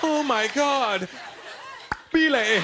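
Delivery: high, slow moaning woman's voice; hammed-up ecstasy; mock ecstatic lover. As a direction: moan it high and drawn out. Woman in imagined lovemaking.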